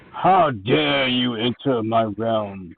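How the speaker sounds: slow, lightly voiced ominous challenge; ominous villain voice. Game master as a new foe challenging intruders, mildly ominous and slow. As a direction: draw the words out with understated menace. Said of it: "in a very deep, ominous voice".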